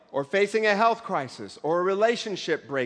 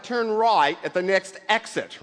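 slow, gentle sat-nav voice; mildly imitating a calm navigation voice; gentle GPS voice. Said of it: "it's very gentle".

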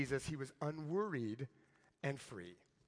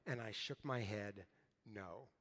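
ashamed quiet mumble; 8 semitones lower, 9 dB quieter than usual. Retold or imitated. Student shamed into denying faith.

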